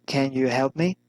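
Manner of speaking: "me" rising at the end; rising intonation. Shown as a demonstration. Teacher models direct address, rising intonation on "me". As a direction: lift "me" into a clear question. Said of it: "rising intonation".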